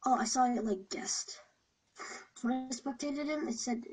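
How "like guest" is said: whispering. Real, not acted. Hiding from seeker in game.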